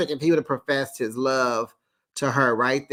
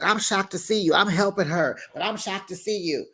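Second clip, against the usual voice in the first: shady surprise; 5 semitones higher than usual. Retold or imitated. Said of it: "Lisa's like".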